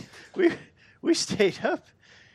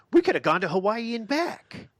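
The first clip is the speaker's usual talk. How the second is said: laughing and louder; 9 semitones higher, 6 dB louder than usual. Real, not acted. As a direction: laugh it out in disbelief. Laughing exclamation.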